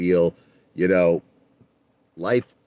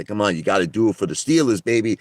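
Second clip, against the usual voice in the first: salesman pitch; 5 semitones higher, 3 dB louder than usual. Retold or imitated. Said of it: "And I'd say".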